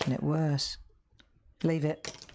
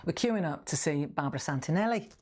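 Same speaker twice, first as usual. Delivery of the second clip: mild imitated Scouse; lightly put-on Liverpool accent, rising at the end; Hilda. Customer repeating what she told her friend, mild Scouse. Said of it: "Scouse, Liver-, Liverpool".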